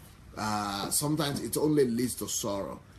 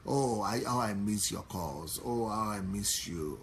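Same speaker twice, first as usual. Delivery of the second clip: tender longing. Shown as a demonstration. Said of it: "why don't you just say".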